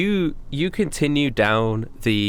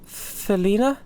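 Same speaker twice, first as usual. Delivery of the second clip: higher, hesitant and halting; a touch of shock catching in her throat; startled recognition; 6 semitones higher, 3 dB quieter than usual. Acted. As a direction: Heather hearing her friend's name. Heather shocked at the name.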